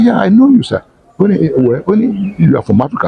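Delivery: bursting with recognition; eager high call; excited recognition. Retold or imitated. Former student excitedly recognizing her.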